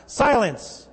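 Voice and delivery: firm command to be silent, pitch up then falling. A narrator's reading. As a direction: order the storm to hush. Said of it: "told the wind to be silent".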